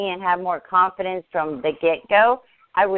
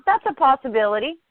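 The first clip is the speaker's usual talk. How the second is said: musing mom; 6 semitones higher than usual. Retold or imitated. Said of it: "She said".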